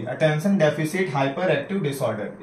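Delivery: each word of the full form spelled out slowly. Shown as a demonstration. Teacher slowly reading out a full form for students. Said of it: "आठवां point हमारा है ADHD".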